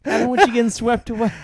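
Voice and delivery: hammed-up anxious mother warning her son; mock worried mom. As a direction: play the overprotective mom.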